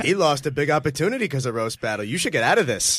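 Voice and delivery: lightly put-on voice; Matt Maron. Comic as Matt telling Lewis to quit, light impression. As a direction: mimic an urgent warning. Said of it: "Matt Maron impressions".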